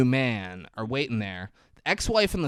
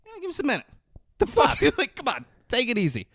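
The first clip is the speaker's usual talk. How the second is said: pitched up high, impatient brush-off; high mocking voice; 11 semitones higher than usual. Ex-wife shoos the honking boyfriend in a high voice. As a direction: squeak it out, annoyed. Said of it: "She's like".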